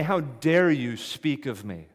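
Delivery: preacher voicing an imagined angry rebuke; mock indignant rebuke. Real, not acted. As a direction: voice the rebuke Jesus never gave. Preacher voicing what Jesus didn't say.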